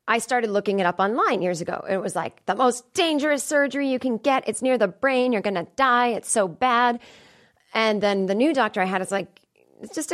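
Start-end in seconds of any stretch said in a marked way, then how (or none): 2.5-7.0 mock alarm. Voices scary online surgery articles.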